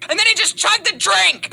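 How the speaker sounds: loud, high, thrilled telling; excited shout. Retold or imitated. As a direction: shout the punchline. Retake of climax.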